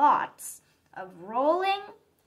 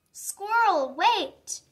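high call after a runner; calling out again; 7 semitones higher, 4 dB louder, slower than usual. Acted. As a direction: call out to a friend racing off. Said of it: "her friends called once more".

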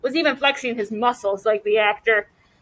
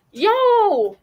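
much higher, loud call; shout; 8 semitones higher, 3 dB louder than usual. Acted. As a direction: call out to get his friend moving. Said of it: "shouted Evan".

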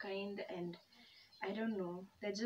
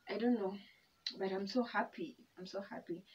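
mouth full. Real, not acted. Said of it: "'Cause I'm eating and talking to you guys".

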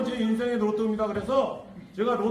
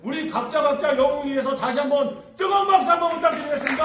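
fast, loud call for applause; rousing shout; 2 semitones higher, 3 dB louder, faster than usual. Real, not acted. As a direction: whip up the crowd for applause. 박수를 유도하며 외침. (박수 유도하는 외침)

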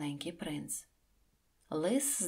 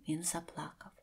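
whisper; 7 dB quieter than usual. A narrator's reading. Narrator whispers softly.

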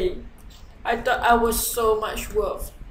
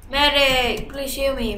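urgent call for help; 5 semitones higher, 4 dB louder than usual. Real, not acted. Calling the medic for healing.

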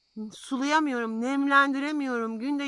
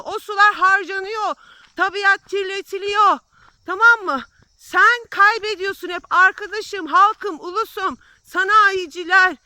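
louder, heated outburst at the greedy rich; angry rant; 3 semitones higher, 3 dB louder than usual. Real, not acted. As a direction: let real anger push the words out hard. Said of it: "ben o kadar sinirliyim ki normal konuşamıyorum".

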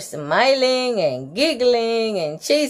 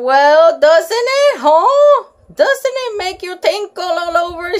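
put-on high, gushing little girl voice, loud on the start; hammed-up bossy girl with a shrill lift; excited high Lucille; 7 semitones higher, 4 dB louder than usual. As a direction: squeal it like a show-off girl.

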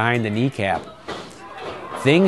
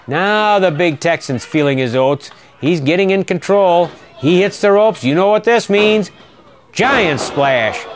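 rising excitement; 5 semitones higher than usual. Real, not acted. Big man takes control of match.

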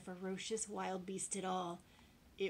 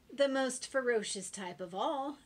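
loud, higher boasting delivery; emphatic declaration; 5 semitones higher, 9 dB louder than usual. A narrator's reading. Boy telling the lion about the beasts, emphatic declaration. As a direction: declare it dramatically. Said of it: "declared the boy".

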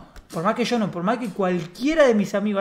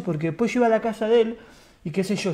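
normal talking voice

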